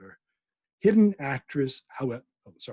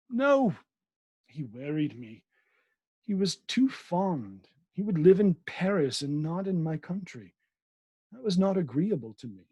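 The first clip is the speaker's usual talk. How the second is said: Laure's voice; 4 semitones higher than usual. Acted. Laure answers Lydgate.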